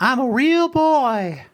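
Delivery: put-on very high puppet voice, boy drawn out. Discussing an episode's theme with a co-host: Pinocchio impression. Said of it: "That was my Pinocchio impression".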